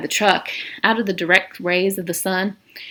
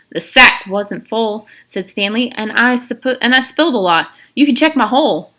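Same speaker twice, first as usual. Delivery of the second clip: put-on higher, louder nervous boy; Stanley pleading; 3 semitones higher, 4 dB louder than usual. Stanley to the warden, nervous louder plea. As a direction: defend yourself anxiously.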